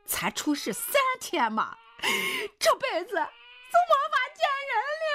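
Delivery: high, loud, voice cracking with tears; loud tearful demand. A narrator's reading. Wife confronts her husband over the baby, loud tearful shouting. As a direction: shout it out while close to crying. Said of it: "胡老师又大声地问".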